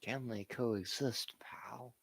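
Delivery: whispered question in a put-on voice; mock whisper. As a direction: hiss it like a scheming boss. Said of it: "continues the impression bit".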